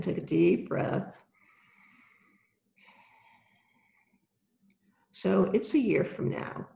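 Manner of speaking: calm guided visualization, unhurried; right in your ear. Acted. Guided visualization with eyes closed.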